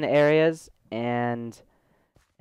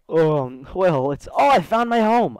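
high, louder flustered stammer; mock flustered self; 5 semitones higher, 7 dB louder, slower than usual. Retelling his own flustered reply to mom, high and loud. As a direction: fumble the answer, then jump high. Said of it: "I'm like".

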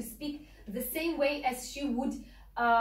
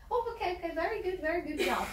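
higher-pitched praise; approving teacher; 5 semitones higher, faster than usual. Acted. Teacher patting a student after good work, approving. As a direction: act out a teacher's approving pat.

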